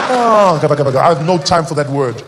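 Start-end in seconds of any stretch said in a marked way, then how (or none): 0.1-1.0 louder sleep talk. Pretend. Comic jerking awake mid-dream, louder blurt. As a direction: blurt "kafir" as if startled in sleep. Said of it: "I'll be asleep tonight, like, oh".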